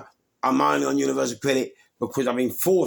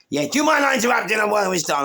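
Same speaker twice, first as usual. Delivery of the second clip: high, loud and fast retold shout; 11 semitones higher, 5 dB louder, faster than usual. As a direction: yell it fast, outraged at the interruption. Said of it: "So she shouted".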